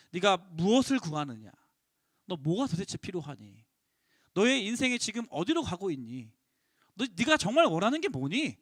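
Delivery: gentle Jesus. Acted. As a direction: ask each one tenderly.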